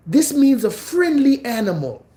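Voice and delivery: high, whispered fake reassurance; mock sly whisper. Mocking the dude's excuse in a high sly whisper. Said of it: "He literally said that".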